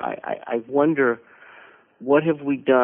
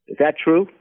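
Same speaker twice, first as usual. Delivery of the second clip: retold anger; 7 semitones higher, 5 dB louder than usual. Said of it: "And she's angry".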